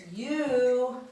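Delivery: each word stretched, long pauses between; word-by-word dictation. Shown as a demonstration. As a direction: say one word at a time while writing. We're gonna put it in black.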